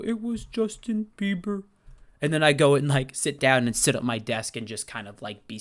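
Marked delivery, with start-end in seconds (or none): 0.0-1.6 sheepish reveal. Retold or imitated. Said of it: "And I go".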